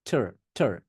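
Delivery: aspirated t then a curled r in ঠার; American "ter". Shown as a demonstration. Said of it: "টার উচ্চারণ করতেই হয়". (ঠার, American র দিয়ে)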